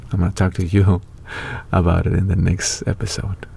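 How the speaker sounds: whispered through a laugh. Real, not acted. Promising viewers the next episode, laughing whisper. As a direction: keep it secret, whisper with a chuckle.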